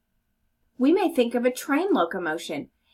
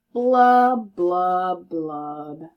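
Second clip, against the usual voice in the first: sinking blubs; 5 semitones lower, 4 dB louder, much slower than usual. Acted. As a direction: let the blubs sink and die out. Fish's sad refrain.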